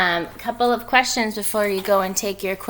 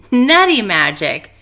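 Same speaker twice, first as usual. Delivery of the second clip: louder, slow joyful group cheer; shout; 7 dB louder than usual. Acted. All the animals shouting in delight at the nuts. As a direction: cheer it out together. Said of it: "everyone shouted".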